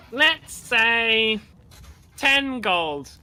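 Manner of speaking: name your terms boldly; confident warrior. Acted. GM voices Maloon setting stakes.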